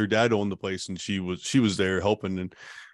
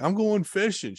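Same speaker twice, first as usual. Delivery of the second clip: cheery reply; 10 semitones higher than usual. Retold or imitated. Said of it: "I'm like".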